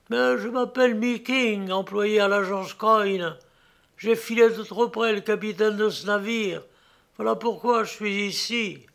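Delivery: lightly voiced weary prisoner; prisoner's voice. Prisoner Meeking explains himself.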